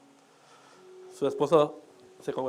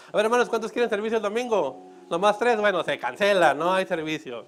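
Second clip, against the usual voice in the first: mock pastor announcement; 4 semitones higher, 4 dB louder than usual. Mock pastor polling congregation.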